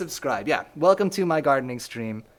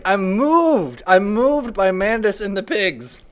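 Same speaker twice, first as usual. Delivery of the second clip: mock moved; 3 semitones higher, 4 dB louder, slower than usual. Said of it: "you're crying 'cause the game is so great".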